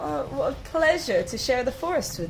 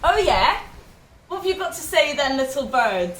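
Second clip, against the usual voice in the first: defiant cockerel; 4 semitones higher, 3 dB louder than usual. Acted. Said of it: "staring up at the little bird like".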